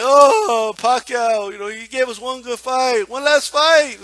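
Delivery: mildly hammed-up tearful tribute; mock crying. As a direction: imitate a commentator moaning with emotion. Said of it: "he started crying about".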